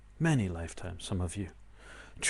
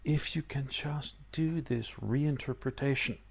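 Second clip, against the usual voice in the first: soft confiding tone; 2 semitones lower, 6 dB quieter than usual. Acted.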